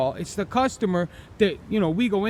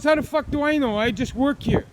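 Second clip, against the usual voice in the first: higher-pitched imitation of a store clerk's retort; retold snappy retort; 6 semitones higher than usual. Store clerk answering an angry customer, mock indignant retort. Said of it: "That's how the guy said it to me".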